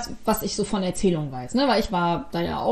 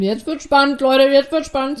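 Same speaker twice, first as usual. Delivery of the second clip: building excitement, louder; 3 semitones higher, 5 dB louder than usual. Real, not acted. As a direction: hype announcer tone. Building hype.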